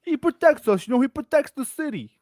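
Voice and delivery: high, gushing fanboy voice; mock fan voice. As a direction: gush like an awed citizen. Mock hero-worship voice.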